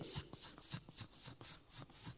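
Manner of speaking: slow, whispered rhythmic sawing noise; soft, repeated hissing munch; imitated gnawing. Shown as a demonstration. The worm gnaws through Jonah's plant, hushed imitated gnawing.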